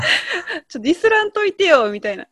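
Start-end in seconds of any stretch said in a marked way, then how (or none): 0.8-1.9 light Kansai dialect, raised pitch; 関西弁で軽く「ディスらんといてよ」. Shown as a demonstration. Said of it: "関西弁だ". (関西弁で、ツッコミ風に高めの声で)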